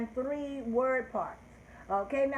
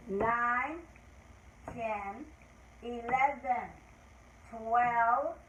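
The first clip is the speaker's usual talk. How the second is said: counting aloud; much slower than usual. Shown as a demonstration. Teacher leads class counting in English. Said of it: "we're gonna count in English".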